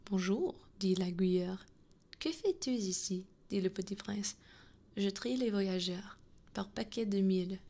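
gentle French storybook reading; story narration. Acted. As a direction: read a French tale aloud with lilting questions. Reads The Little Prince aloud.

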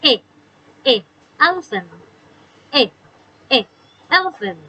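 teacher sounding out the e sound; phonics sound. Shown as a demonstration. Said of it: "ข้อที่แปดค่ะ".

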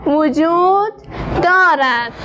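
slow, word-by-word reading; slow model reading. Shown as a demonstration. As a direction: read it slowly so pupils can follow. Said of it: "بخوانیم با هم". (خواندن کلمه به کلمه و آهسته)

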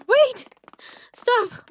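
usual speaking voice

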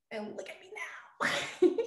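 whispered through a laugh. Real, not acted. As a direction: giggle it out softly. Laughing at own anecdote.

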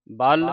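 ਬਲ alone, without the opening a; separated word part. Shown as a demonstration. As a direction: say ਬਲ by itself, firmly held. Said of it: "ਇਹ ਵੱਖਰਾ ਕਰ ਦਿਓ".

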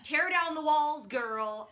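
slow, drawn-out mock coaxing; egging her on to open up, slowly; teasing imitation of a fake therapist. Regina mocking Emma in therapy.

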